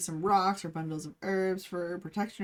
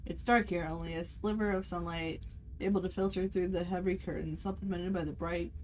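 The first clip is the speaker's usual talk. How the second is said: calm scene-setting narration; game master narration; 3 dB quieter than usual. A narrator's reading. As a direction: paint the dim tea room for the players.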